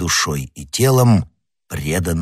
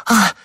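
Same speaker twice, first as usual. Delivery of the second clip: short high "ah!" of surprise; a quick high gasp-cry; startled cry; 13 semitones higher than usual. A narrator's reading. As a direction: let out a sudden, high cry. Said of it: "вскричала госпожа Бонасье".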